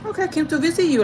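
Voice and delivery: high, light retold greeting; playing it off. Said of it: "kinda play it off".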